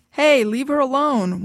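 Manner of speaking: slow, half-hearted yell; lackluster yell. A narrator's reading. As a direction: call out without conviction. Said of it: "one of the men yelled ... lackluster".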